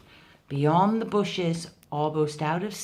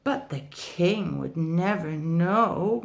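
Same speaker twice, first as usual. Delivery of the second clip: whined. Acted. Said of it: "whined Tiger".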